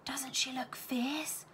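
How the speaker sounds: slow, breathy schoolgirl whisper. A narrator's reading. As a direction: hush it so the governess won't hear. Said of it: "whispered Melanie".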